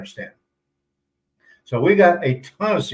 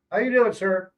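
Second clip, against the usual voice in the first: imitating a polite greeting; 4 semitones higher than usual. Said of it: "they're taught to respect".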